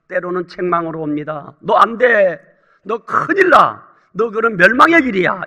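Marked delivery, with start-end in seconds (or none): 1.6-5.4 sternly voiced warning, pushed a little louder; mild rebuke. God's word warning a believer off the wrong path, rebuking. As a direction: act out a firm reproof. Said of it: "이렇게 책망으로 올 수 있습니다".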